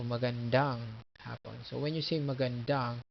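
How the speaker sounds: magandang with the final DANG stressed; "magandang", weight falling on DANG; stress on last syllable. Shown as a demonstration. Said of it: "you accent the last one".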